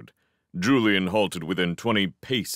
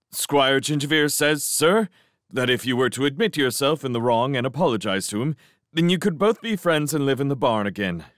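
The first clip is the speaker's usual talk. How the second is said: put-on higher, eager, nervous young mouse relaying a message; 6 semitones higher than usual. Mouse passes the cat's message to the owl, nervous. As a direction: hurry through the message politely.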